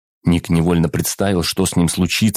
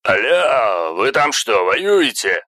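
through a tube; 4 semitones higher, much slower than usual. Acted. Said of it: "сунули переговорную трубку".

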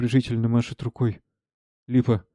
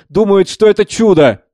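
higher-pitched, mock-amused exclamation; laughing mockery; 8 semitones higher, 10 dB louder than usual. Savva mocks the believers to Speransky, derisively amused. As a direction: repeat it with rising derision. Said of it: "Смеётся".

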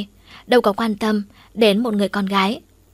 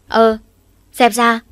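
loud sharp shooing; scolding shout; 2 semitones higher, 7 dB louder, slower than usual. Acted. Mother shooing clinging son away, loud scold. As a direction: shoo him off loudly. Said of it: "mẹ muốn quát gì thì quát".

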